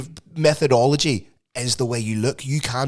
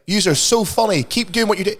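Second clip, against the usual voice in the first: slightly higher, lightly put-on commenter; mock gushing fan; 6 semitones higher than usual. Host imitating fans commenting on a burger video, mock gushing. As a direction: send up an admiring comment. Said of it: "people comment and being like".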